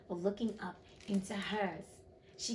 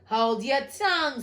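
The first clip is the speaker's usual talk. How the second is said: loud, higher-pitched furious order; enraged queen; 4 semitones higher, 10 dB louder than usual. A narrator's reading. The queen turning purple at Alice, enraged. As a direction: silence them with an angry command. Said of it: "turning purple".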